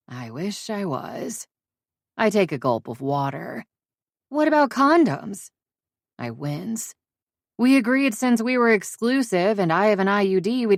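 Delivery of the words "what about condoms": incredulous friend. Acted. Friend demands, pitch very high.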